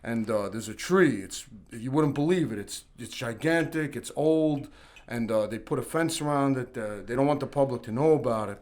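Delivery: a hint of his dad, lightly voiced; dad's voice. Dad telling son about a hidden giant tree, lightly voiced. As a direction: tell it like a patient dad. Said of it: "I'm gonna do it in my dad's voice".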